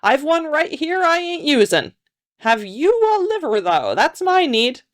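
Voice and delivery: high-pitched ancient croaker; ancient croaking voice. A narrator's reading. Old grave robber bargaining for a liver, high croaking voice. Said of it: "came an ancient croaking voice from nearby".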